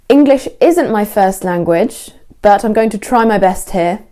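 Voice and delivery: taking ownership, assured and clear; confident, unapologetic. Shown as a demonstration. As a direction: own it without apologising. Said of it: "you're taking ownership".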